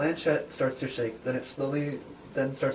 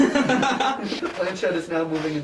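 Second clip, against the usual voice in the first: laughing narration; 5 semitones higher, 8 dB louder, slower than usual. Real, not acted.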